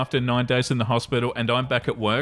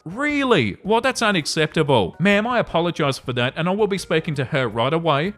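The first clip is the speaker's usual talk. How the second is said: mock appalled, high-pitched sternness; stern and appalled. Manager to Karen on phone, mock stern and appalled. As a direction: act shocked at the rude cashier, voice pitched up. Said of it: "Me sounding stern and appalled while maintaining my higher pitched voice".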